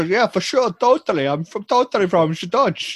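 mock Dutch answer. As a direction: pretend to be Dutch, playing along. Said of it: "just go".

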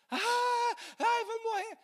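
high, loud mock cry of terror; panicked disciples. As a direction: wail like a frightened fisherman. Discípulos aflitos na tempestade. (grito de pavor encenado, muito agudo)

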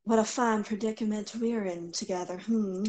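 hushed, wry character line; soft character voice. Acted. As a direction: murmur it wryly to the flute. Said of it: "and she says".

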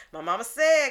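hint of a playful catchphrase voice; mama-said tone. Shown as a demonstration. Therapist quoting mama's lessons to clients, playful catchphrase tone. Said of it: "I use it in that tone of voice".

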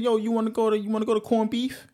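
lightly voiced New York buddy; a mild New York accent, pushing a friend to go out. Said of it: "a hardcore New York accent".

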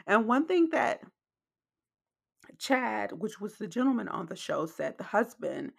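clicky wet mouth sounds; wet mouth clicks. Real, not acted. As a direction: speak with lip smacks and clicks. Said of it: "excuse the mouth sounds, y'all".

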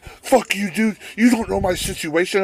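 high-pitched imitation of an offended man; whiny protest. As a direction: protest in a mock-hurt high voice. Acted quarrel, man thrown out.

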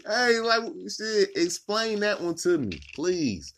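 high, loud, slow challenge; mock God demanding. God asking the killer to explain, high slow demand. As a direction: demand an answer like an irate God. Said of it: "is what he gonna say".

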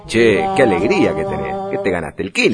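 bright cheerful teasing. Shown as a demonstration. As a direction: sound delighted for them.

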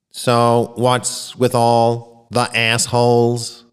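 slow, stiff machine delivery; robotic voice. Acted. Alien computer announces its message to the auditorium, slowly and robotically. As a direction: read it like a computer speaking. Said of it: "the robotic voice announced".

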